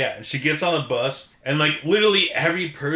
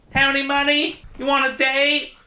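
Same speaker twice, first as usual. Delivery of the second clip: high, sleazy come-on pitched way up; hooker voice; 10 semitones higher than usual. Retold or imitated. Podcast host voicing Frankenhooker propositioning men, high mock hooker voice. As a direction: toss out the pickup line like a streetwalker. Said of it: "your voiceover of the hooker quotes".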